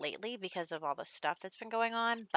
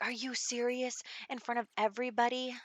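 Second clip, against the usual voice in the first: higher-pitched, mildly outraged bride; mock angry disbelief; 5 semitones higher than usual. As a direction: imitate an indignant bride scolding. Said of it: "she's so mad".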